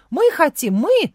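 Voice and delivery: loud, high eager yell. A narrator's reading. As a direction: shout it out like an excited child. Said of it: "завопила Маня". (восторженный вопль)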